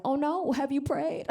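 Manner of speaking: lightly voicing a devout Catholic mom; worried mom. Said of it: "She's always like".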